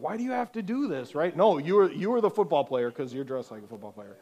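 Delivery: put-on high, fast sneering teen boy; high fast taunting bully; mocking jerk voice. Jerk voiced again, acted out.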